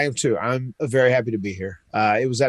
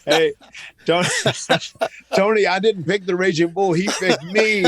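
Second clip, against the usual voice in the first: laughing protest; 5 semitones higher than usual. Real, not acted. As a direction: play it off with a laugh.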